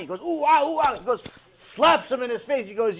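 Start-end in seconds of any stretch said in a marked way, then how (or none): 0.2-0.9 high playful ooh-ah hooting; mock monkey hoots. Debtor fooling the creditor at the door, mock monkey hoots. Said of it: "he thinks he's a monkey".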